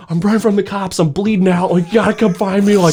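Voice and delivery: mock panic on the phone; frantic plea. Calling his roommate while bleeding, hammed-up frantic panic.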